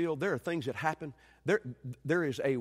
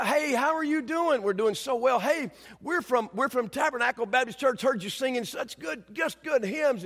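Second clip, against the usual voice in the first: lightly acted eager hello, raised pitch; excited greeting; 5 semitones higher than usual. Street preachers greeting a hymn-singing old lady, mildly excited. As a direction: greet her with a touch of mock eagerness. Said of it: "we're so excited to talk to her".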